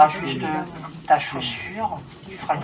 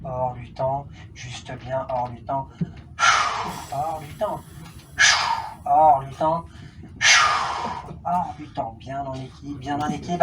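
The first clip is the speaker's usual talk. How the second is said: trance deepening; 2 semitones lower, slower than usual. Acted.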